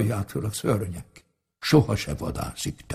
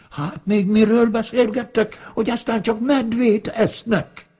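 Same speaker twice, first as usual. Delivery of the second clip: high, panicky wolf spilling out the tale; wolf begging bear to run, voice pitched high; frightened wolf; 7 semitones higher than usual. Acted. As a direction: gasp it out in alarm.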